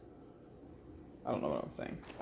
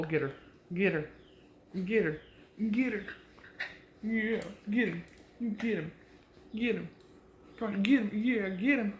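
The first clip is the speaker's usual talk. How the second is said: higher, playful cheering; egging on dogs; 4 semitones higher than usual. Real, not acted. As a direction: hype up the dogs playing.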